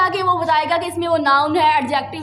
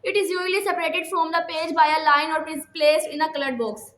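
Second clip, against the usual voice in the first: slow dictation reading; much slower than usual. Shown as a demonstration. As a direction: read each word slowly for students to copy.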